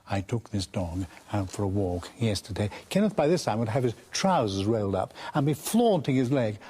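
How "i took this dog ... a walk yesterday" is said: lower, slow, droning and mournful; slow lugubrious Freud. Retold or imitated. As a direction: drag it out gloomily, deadpan. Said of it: "in his very slow, lugubrious way".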